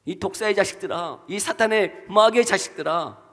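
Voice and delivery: rising into a furious shout; angry rebuke. Acted. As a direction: scold the crowd, building to a yell. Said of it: "막 진노하며 화를 내더라는 거예요". (점점 격해지는 분노의 외침)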